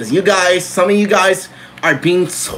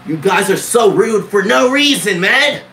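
mock angry; 5 semitones higher than usual. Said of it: "I get a little angry sometimes".

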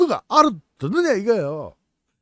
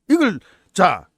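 ordinary delivery

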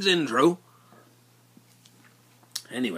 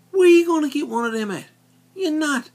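boastful; 13 semitones higher, 6 dB louder than usual. Real, not acted. Boasting about the bargain.

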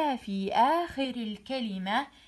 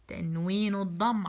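تنوين الضم said quickly, run together; rushed first try; 3 semitones lower, faster than usual. Shown as a demonstration. Teacher slips while naming the vowel mark, rushed. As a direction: hurry تنوين الضم before a self-correction. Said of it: "عفوًا".

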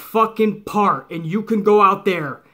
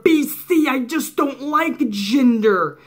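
mocking whiny fan; 3 semitones higher, slower than usual. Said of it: "just hit the keyboard".

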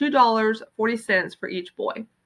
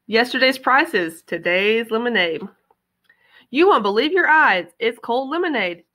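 sign read aloud; 2 semitones higher than usual. Acted. Reading the lemonade sign aloud.

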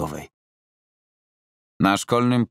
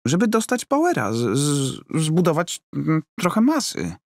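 much higher, flustered and stuttering; Roman, stammering; 10 semitones higher than usual. Acted. Roman flustered by his angry coach, high stammer. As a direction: caught out, fumbling for an excuse.

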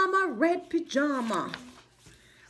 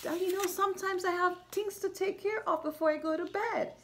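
tender mama; 3 semitones higher, 4 dB quieter, faster than usual. Retold or imitated. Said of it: "mama is talking to baby bear like".

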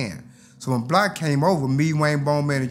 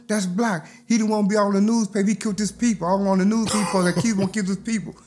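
higher, urgent frightened whisper-free warning; scared warning; 6 semitones higher than usual. Retold or imitated. Scared friends warning him who the killer is, high and urgent. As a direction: warn him fast, rattled and high. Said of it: "They said".

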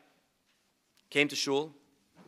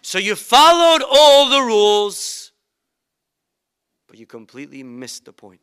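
rising then fading rebuke; 5 semitones higher, 11 dB louder than usual. Retold or imitated. Mother's climax then soft drop.

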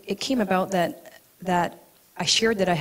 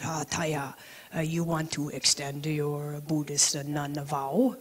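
put-on 1 gentle old teacher; 4 semitones lower, 4 dB quieter than usual. Teacher Rinpoche voiced in story.

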